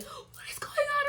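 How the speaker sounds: imitated tearful wail, very high and drawn out; mock crying. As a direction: act out crying in a squeaky, slow voice. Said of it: "I'm on the other end crying".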